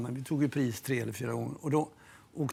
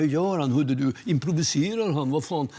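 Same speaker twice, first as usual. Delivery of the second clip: nervous questions; 6 dB louder than usual. Retold or imitated. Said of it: "blir han ju nervös och frågar".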